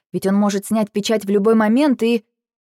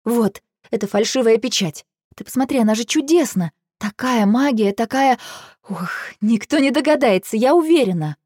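excited; 5 semitones higher than usual. Acted. Elya shows off fake seal.

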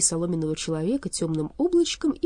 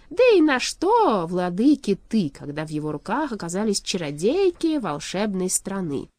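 scornful king pronouncing judgement, voice raised; haughty shadow king; 2 semitones higher, 4 dB louder than usual. Acted. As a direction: lord it over a prisoner.

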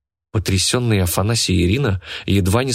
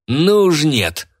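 higher, louder, slow snarl of rage; furious yell; 7 semitones higher, 3 dB louder, much slower than usual. A narrator's reading. Стилет yells in fury as the girl walks off with the prize. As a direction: howl it out in spite. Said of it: "злобно завопил стилет".

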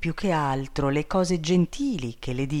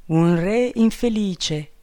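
lightly voiced king, a bit higher, gently consoling; tender bird king; 6 semitones higher, 5 dB louder than usual. Enchanted bird king consoles captive princess, tenderly. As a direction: soothe her with devoted tenderness.

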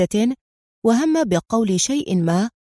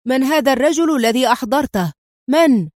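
higher, louder demanding shout; 4 semitones higher, 4 dB louder than usual. Acted. Squad leader shouting at the terrified driver, gun raised. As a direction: bark the question at the driver. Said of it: "صائحًا".

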